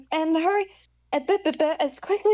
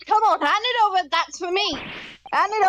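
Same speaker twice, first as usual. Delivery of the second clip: man doing a woman's voice; 3 semitones higher, faster than usual. Acted. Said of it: "I've been working on my girl voice".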